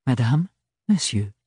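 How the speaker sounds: high, breezy courtesy; winning with a smile; triumphant Archibald. Acted. Archibald conclut.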